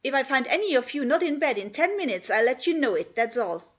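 scandalised scolding; Martha, angry scolding. Acted. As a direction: tell the children off, indignant but not shouting. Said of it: "she was very angry indeed".

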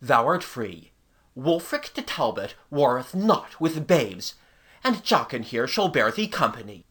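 deep-pitched chivalrous proclamation; noble. A narrator's reading. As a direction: release him with lordly grandeur. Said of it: "he added nobly".

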